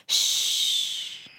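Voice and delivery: breathy hush after a gasp; whispered shush. Acted. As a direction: hush them like a secret. Teacher hushes children to listen.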